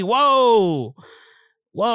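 high, drawn-out objection; mock protest. Acting out a viewer objecting to the new agent, mock protest. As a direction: put on a high, halting cry of objection.

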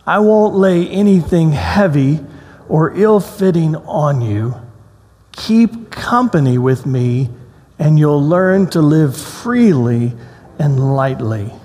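slow, gentle reading of the passage; slow scripture reading to the congregation. Acted. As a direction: read it like a comforting invitation. Reads scripture aloud slowly.

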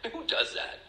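breathy, high whispered question. Real, not acted. A recovering alcoholic whispers to the room in self-reproach. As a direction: whisper it in disbelief at yourself.

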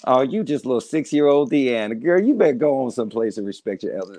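mock a relative putting a grown woman in her place; scolding elder relative.

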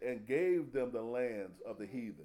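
slow, weighty recitation; solemn scripture quote. Acted. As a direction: lean on each word of the verse. Repeats scripture.

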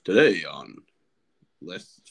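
mock news-anchor read; lightly hammed radio host. Shown as a demonstration. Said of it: "You gotta have that radio voice".

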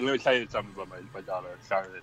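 lightly voiced old wrestler with lisp; a hint of old Ric Flair lisp; Ric Flair impression. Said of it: "a Ric Flair impression".

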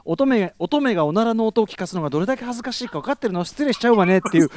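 quick, huffy ladylike indignation; prissy lady voice. Retold or imitated. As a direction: play the offended maiden, fast. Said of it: "おならの編集テープ聞かされた時の".

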